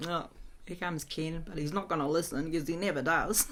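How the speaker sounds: laid-back retold aside; low-key imitation of unbothered brothers; casual. Brothers watching Ken arrive, casual and unimpressed. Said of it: "just standing there real casual".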